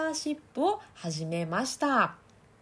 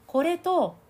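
higher, louder ring through the nose; nasal resonance; 9 semitones higher, 5 dB louder, much slower than usual. Shown as a demonstration. Coach contrasting nasal and mouth resonance. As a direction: push it up into the nose. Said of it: "声の響きの違い".

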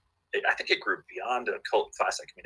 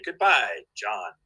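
lightly voiced robot farewell; robot goodbye; 4 dB louder, slower than usual. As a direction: imitate a talking animatronic. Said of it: "he would say".

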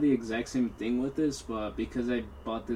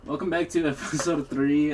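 trying not to laugh; 3 semitones higher, 6 dB louder than usual. Real, not acted. Intro with laugh inside.

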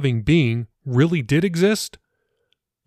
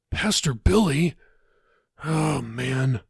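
annoyed; slower than usual. Acted.

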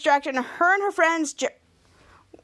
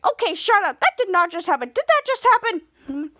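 high-pitched disbelief; surprised; 5 semitones higher than usual. Retold or imitated. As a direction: retell it as a stunned, high exclamation. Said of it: "And Henry was surprised".

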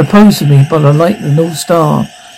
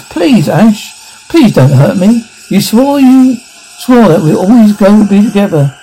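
pleading, slightly higher voice; Linda's voice; 4 semitones higher than usual. Acted. Linda begs Ash not to hurt her, pleading. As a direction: plead as Linda, lightly acted. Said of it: "Linda's voice".

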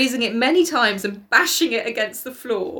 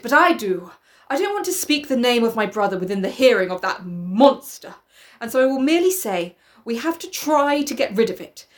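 pleading, emphatic speech of a fed-up sister; earnest sister; 4 semitones higher than usual. Acted. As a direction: plead the case to the parents.

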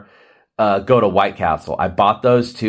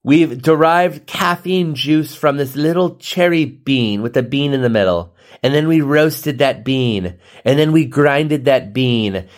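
mock epic; 3 semitones higher than usual. Mock epic coffee story.

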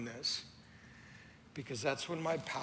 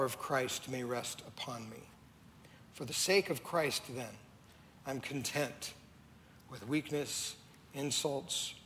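scripture reading. Acted. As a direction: read each word of the verse with weight, slowly. Reads scripture aloud.

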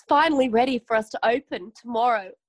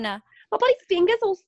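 pained cry; 8 semitones higher, 4 dB louder than usual. Acted. Hurt finger after tiger bite.

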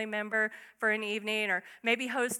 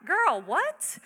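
put-on higher, louder incredulous "girl, what"; sassy side eye; 6 semitones higher, 4 dB louder than usual. Martha to lazy sister Mary, sassy disbelief. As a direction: throw shade at your sister. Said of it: "the side eye that Martha is giving Mary".

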